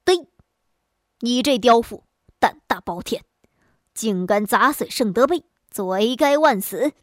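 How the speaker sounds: magistrate roaring at the accused woman; stern shout. Acted. Magistrate shouts at the woman who smashed the stele, stern and loud. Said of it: "厉声喝道".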